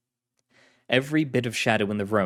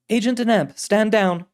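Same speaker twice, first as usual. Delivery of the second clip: firm authoritative woman's voice; commanding director; 11 semitones higher, 6 dB louder than usual. Acted. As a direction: give the order with authority.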